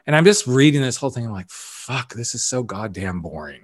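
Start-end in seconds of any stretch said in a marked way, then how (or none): 1.5-3.6 whispered, disgusted mutter under the breath; half-voiced groan of boredom at his own pages; a hushed, fed-up curse; muttered aside. Bored while rereading his book.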